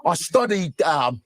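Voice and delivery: mock refined British accent; hammed-up British interview voice, hesitating; Idris Elba. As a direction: put on a lordly British accent. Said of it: "I'm watching B B C".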